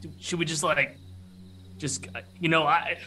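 metallic clacking voice. Acted. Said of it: "this kind of metallic clacking voice".

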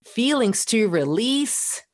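bright giddy-up cheer, pitched high; excited pep talk. Pretend. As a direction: spur your own voice on like a horse. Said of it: "You are telling your voice".

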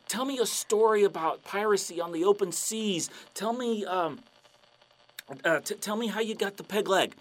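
mildly hammed-up fanboy; eager pirate fan. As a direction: fumble for the request in eagerness. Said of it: "And the guy's like".

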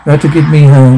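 raspy, eerie monotone voice; eerie rasping monotone. Acted. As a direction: rasp it out flat and eerie. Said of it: "Rasping an eerie, monotone voice".

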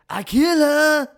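put-on Russian accent. Podcaster quoting the actor's Russian-accented villain line, shouted hammily. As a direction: bark it out like a Russian movie villain, in a thick Russian accent. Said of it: "he's got, like, a Russian accent".

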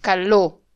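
"Caló" punched on the final o; "Caló" as ca-LO, weight at the end; stress on O. Shown as a demonstration. Speaker correcting the co-host, "Caló" stressed on O. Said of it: "Acento en la O".

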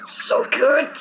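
high-pitched cooing over a pet; gushing guards. Acted. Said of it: "And then they're like".

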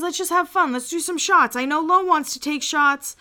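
Doug pleading. Retold or imitated. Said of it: "Doug jumps in and he's like".

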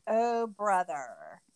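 very slow, drawn-out eye-roll delivery; mock exasperated sigh. Host imitating Tanya answering the interviewer, slow mock exasperation. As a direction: sigh it out like you're bored of the question. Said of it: "Tanya sighs, rolls her eyes".

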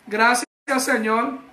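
slow, unexcited thanks; mock a half-hearted worshipper; flat praise. Shown as a demonstration. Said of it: "así como flat".

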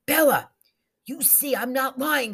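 high, loud call of a name; crying out. A narrator's reading. Zelda spots Bella's pale stare, crying out to her. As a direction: cry out the name sharply upward, then fall. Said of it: "she cried".

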